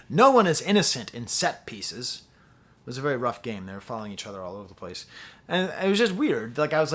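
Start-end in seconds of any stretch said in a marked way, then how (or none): 0.1-2.2 louder commentator's call; sports commentator. Retold or imitated. World Cup commentator on a rough game, loud call. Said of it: "the commentator said".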